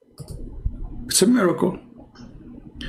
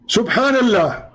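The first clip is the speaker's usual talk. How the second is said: mock awe; 8 semitones higher than usual.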